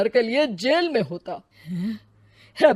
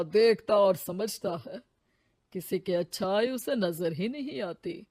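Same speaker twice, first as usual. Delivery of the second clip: calm sage. Acted. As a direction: soothe her like a kindly holy man. Sage comforts Ritu.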